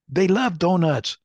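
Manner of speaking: amused, chuckling as you say it; laughing about donuts. Real, not acted.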